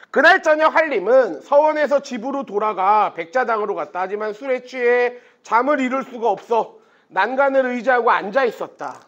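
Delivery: measured literary narration; story narration. A narrator's reading. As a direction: read the tale out clearly to a class. Reads the novel aloud.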